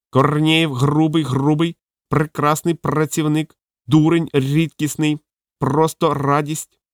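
high, slow parrot squawk. Acted. Parrot speaks.

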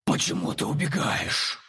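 slow, soft hissing monster voice; hissing creature. Acted. The creature of darkness asks the narrator, softly hissing. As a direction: hiss it like a shadow creature. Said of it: "с шипением заговорило".

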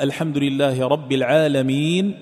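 العالمين ends on a bare نون; slow recited stop with silent vowel; stop on sukun. Shown as a demonstration. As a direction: drop the fatha of العالمين at the pause. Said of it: "إذا وقفت عندها".

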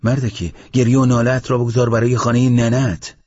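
فریادی بلندتر و زیرتر از روایت; سر ساززن داد بکش. A narrator's reading. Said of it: "یکی داد زد".

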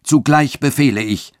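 höher und lauter befehlend; erhobene Stimme. A narrator's reading. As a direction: erhebe die Stimme zum Befehl. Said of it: "mit erhobener Stimme". (mit erhobener Stimme)

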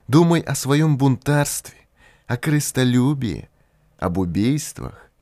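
high, eerie inhuman spirit voice. A narrator's reading. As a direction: speak like something not human. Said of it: "странный, почти нечеловеческий голос".

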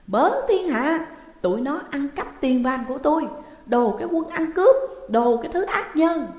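high, loud, outraged public cry. A narrator's reading. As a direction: outshout them, calling everyone to witness. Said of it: "mụ cũng la to hơn". (la làng thật to)

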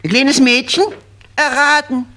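a friend congratulating the new parents, squeaky and giggling; falsetto congratulation. Acted. Same squeaky voice.

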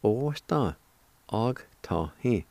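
osta og ta hi in slow chunks; slow joined pronunciation. Shown as a demonstration. Teacher putting the parts together, slow and measured. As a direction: join osta, then og ta hi, unhurried. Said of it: "And together".

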